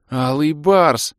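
high slow loud squeal; squeak. Acted. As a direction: squeak it like a thrilled girl. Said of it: "пискнула волшебница". (восторженный писк)

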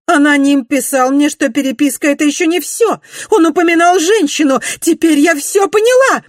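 very high, loud jealous cry; shrill-free loud exclamation of jealousy; jealous outburst. A narrator's reading. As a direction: explode with jealousy. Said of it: "воскликнула она в приступе ревности".

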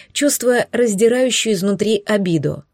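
ordinary delivery

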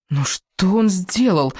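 anger. Acted. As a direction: draw the question out in outrage. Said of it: "Меня переполнял гнев". (протяжно, с гневом)

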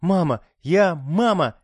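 moaning plea.

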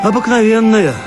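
plain reading voice

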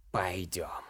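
low, hoarse, near-whispered; one hoarse word, almost breathed. A narrator's reading. Shaman to Ilar, low and hoarse. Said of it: "низким хриплым голосом сказала".

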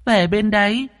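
put-on very high, tearful little girl; whimpering child. Ghost girl leading the exorcists, tearful. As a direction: point the way while close to tears. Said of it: "Đứa bé vừa mếu máo vừa đi".

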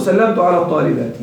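الطالبات ending in a short i, "-aati"; kasra case ending. Shown as a demonstration. Teacher giving students a grammar example, kasra ending pronounced on الطالبات. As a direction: sound the final kasra on الطالبات. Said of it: "يجر بالكسرة".

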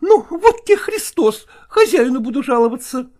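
high, loud scolding cook; fending off. Acted. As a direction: snap back at the pestering men. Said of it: "отбивалась та".

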